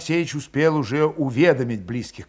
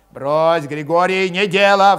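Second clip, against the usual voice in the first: urgent intervening; 5 semitones higher, 7 dB louder than usual. A narrator's reading. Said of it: "вступился Кошевой".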